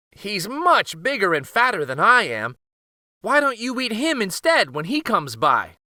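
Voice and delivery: high, eager goat bargaining; pleading goat. Acted. Goat begs the troll to wait for his brother.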